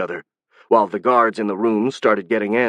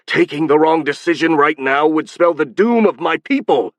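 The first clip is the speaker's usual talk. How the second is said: anguished cry; 6 semitones higher, 4 dB louder than usual. Acted. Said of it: "the Marquis cried".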